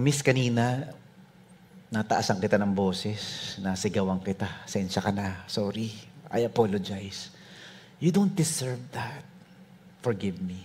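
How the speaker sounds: soft, low contrite retelling; subdued, halting and sorry; humble apology. Retold or imitated. Retold humble apology to waitress.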